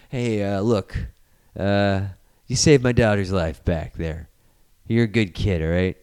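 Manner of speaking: lightly voiced low, measured threat; menacing dad villain. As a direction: offer a deal with a threat underneath. Villain's threat to teen, acted.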